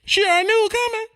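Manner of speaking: high, loud and rapid; loud squeal of a quick retort; high-pitched outburst. Acted. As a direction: blurt it out high and fast. Acted reaction of the mother.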